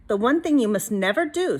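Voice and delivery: a hint of a stern grandmother giving orders; gently bossy witch; lightly voiced old witch. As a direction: lay down the chores firmly. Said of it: "said Stregonona".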